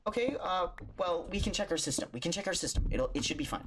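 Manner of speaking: high, bright-pitched clerk voice; high chipper clerk promising to check; upbeat clerk. Retold or imitated. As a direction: reassure like a peppy cashier. Clerk reassures about system.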